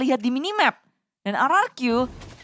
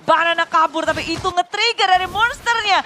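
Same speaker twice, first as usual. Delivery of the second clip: fast, excited play-by-play; esports caster; 5 semitones higher than usual. Acted. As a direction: call the teamfight live. Live teamfight call by caster.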